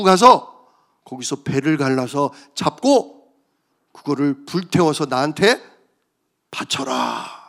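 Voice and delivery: a grave order handed down; solemn God command. Acted. (낮고 엄숙한 하나님의 명령)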